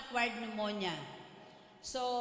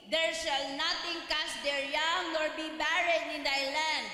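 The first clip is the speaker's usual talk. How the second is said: fervent preaching; 3 semitones higher than usual. Acted. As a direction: preach it with rising conviction, reading scripture aloud. Preaching the testimony's lesson.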